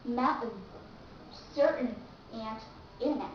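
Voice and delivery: mountain, certain, internet without the T; dropped T. Shown as a demonstration. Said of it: "You have to drop out the letter T".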